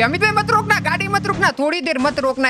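high-pitched insistent plea; urgent pleading. Real, not acted. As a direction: beg the driver to keep going. Begs driver not to stop.

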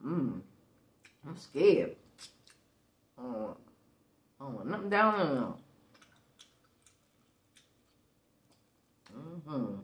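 talking between bites of food; chewing while speaking; mouth partly full. Real, not acted. Seen 3: holds bitten burger, jaw and lips moving as if chewing.

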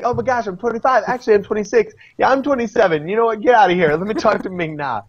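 high mock-girlish voice, rambling about her age; mocking Skye. Host mocking Skye to his co-host, high mock-girlish voice. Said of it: "Sky's like".

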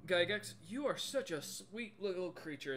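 a hint of a doting troll shopkeeper; lightly voiced fond troll. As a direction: coo gently over a little customer. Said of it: "And you hear in your head".

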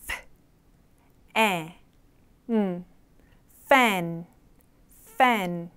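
teacher sounding out "fan" piece by piece; sound-by-sound demo. Shown as a demonstration. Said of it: "한 번 더".

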